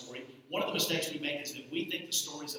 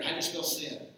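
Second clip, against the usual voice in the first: coaxing the church to answer louder; call for a louder answer. Real, not acted. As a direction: raise them up to shout it back. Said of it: "You can do that better".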